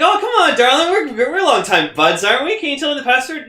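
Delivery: high-pitched wheedling plea; high, pushy cajoling; mock coaxing. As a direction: sweet-talk an old buddy, hammed up. Acting character coaxing the computer.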